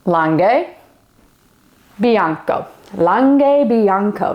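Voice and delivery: Langhe Bianco said slowly and carefully, LAHN-geh BYAHN-ko; Italian wine term. Shown as a demonstration. Reading the label aloud to beginners, careful Italian pronunciation. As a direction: spell out Langhe Bianco syllable by syllable. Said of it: "are these words".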